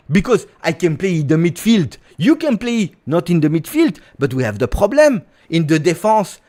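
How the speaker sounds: put-on high, animated French-accented English; French accent with pleading, rising phrases; Kefren Turam, French accent. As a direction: coax a countryman in a heavy French accent. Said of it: "but with a French accent".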